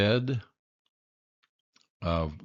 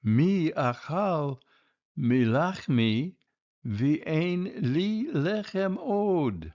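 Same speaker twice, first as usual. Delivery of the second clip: high little cub voice; קול קטן של דובון; small bear cub voice; 8 semitones higher than usual. A narrator's reading. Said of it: "בקולו הקטן".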